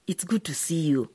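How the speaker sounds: soft whispered welcome; whispered greeting. Acted. Mother greeting her daughter softly after the quarrel, whispered. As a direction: breathe it out quietly to her daughter.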